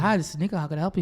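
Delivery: lightly voiced phone professional; a hint of customer-service politeness. Shown as a demonstration. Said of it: "That was my professional voice".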